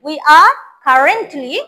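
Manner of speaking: very slow, clear drill; slow model reading. Shown as a demonstration. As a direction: spell it out word by word for the class. (ধীরে ধীরে স্পষ্ট করে বলা)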